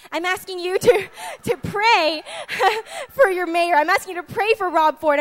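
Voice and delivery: pleading through a breaking voice. Acted. God asking the church to pray, voice breaking.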